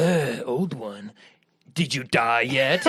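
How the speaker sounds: taunting gatekeeper. Retold or imitated. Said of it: "He's like".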